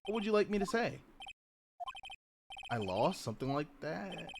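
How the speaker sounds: quiet, resigned villain confession; lightly voiced defeated witness. Witness admitting defeat to the lawyer, resigned. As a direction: concede the game softly.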